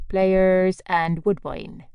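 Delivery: slow, pointed repeat of Pliers and woodbine; curt repeat. Acted. Postmistress repeating the brands to the stranger, slow and pointed. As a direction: Pliers and woodbine, each word drawn out and pointed. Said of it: "she repeated".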